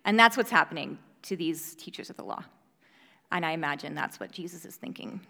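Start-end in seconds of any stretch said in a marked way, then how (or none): 3.3-5.2 sudden real whisper. Real, not acted. Baby nearby, suddenly whispering.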